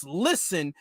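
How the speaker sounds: "listen" slow and emphatic; stress on LISTEN. Acted. Reading out Roland's post to Sway Lee, emphatic stress on "listen". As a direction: lean on "listen" as if capitalized. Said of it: "all caps".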